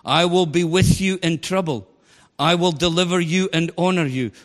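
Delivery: preacher stressing God's promises to the church; added emphasis. Shown as a demonstration. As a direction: proclaim each "I will" with weight. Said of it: "I'm putting in the emphasis".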